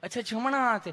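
mock-affectionate nurse voice; lovingly asking nurse. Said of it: "તમે કેટલું પ્રેમથી પૂછો છો".

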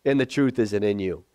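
low-pitched, gentle telling-off; understated, affectionate bluntness; loving rebuke. Acted. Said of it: "With all the love in his heart".

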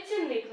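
цінник stressed on НИК; stress on second syllable. Shown as a demonstration. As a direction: put the weight on the end of цінник. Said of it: "на другому складі". (наголос на другому складі: «цінник»)

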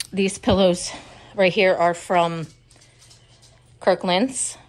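a little winded, short breaths. Real, not acted. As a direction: still catching her breath. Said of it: "I'm sorry I sound out of breath".

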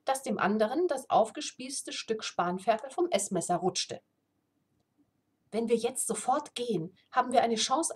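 reading a fantasy novel aloud; steady storyteller read; story narration. A narrator's reading. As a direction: tell the tale evenly to listeners.

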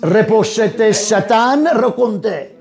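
chanted glossolalia rebuking Satan; speaking in tongues. Real, not acted. Speaking in tongues amid argument.

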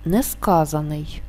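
slow Несказаний, stressed on КА, with a single н; суфікс не наголошений. Shown as a demonstration. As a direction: stress the КА syllable in Несказаний, leaving the suffix unstressed. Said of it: "Суфікс не наголошений". (наголос на КА у слові Несказаний, один н)

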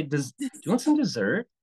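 friendly offer. Shown as a demonstration. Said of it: "Like, you say".

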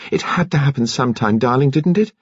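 high, rising outburst without shouting; mild cry. A narrator's reading. Daughter running to her father, lightly voiced cry. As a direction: cry it out lightly, pitch climbing. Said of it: "and cried".

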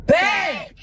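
sudden loud bark of a yell; shout. Real, not acted. Mom yelling at the kid to put it back, loud. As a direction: shout it to stop her.

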